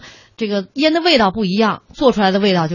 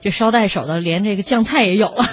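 normal talking voice

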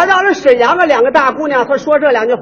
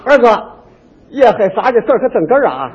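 put-on Tianjin accent; 3 semitones lower than usual. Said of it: "天津人一说话这味儿".

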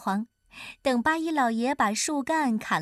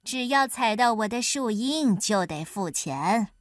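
firm and decisive. Acted. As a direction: lay down the rule with no room for argument. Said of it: "阿凡提斩钉截铁地说".

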